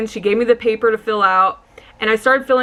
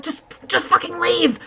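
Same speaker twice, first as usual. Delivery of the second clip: laughing panic; 8 semitones higher than usual. Retold or imitated.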